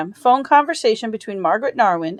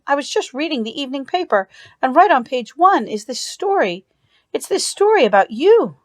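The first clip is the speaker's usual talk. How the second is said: lightly voiced, higher flustered sister; a touch of a worried sister's rush; anxious sister Anita; 5 semitones higher than usual. Anita tells Peg about the story, lightly flustered and higher.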